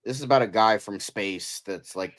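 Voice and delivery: hammed-up whiny complainer; mocking a whiny critic. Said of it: "It's like".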